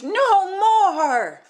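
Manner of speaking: loud, high, far-off shriek; queen yells to stop the magic; screaming queen. A narrator's reading. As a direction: shout it in panic. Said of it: "the queen screamed".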